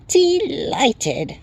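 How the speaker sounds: very high, slow little creature; chirping Tiny. A narrator's reading. Tiny creature addressing the newcomer, high chirp. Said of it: "and chirped".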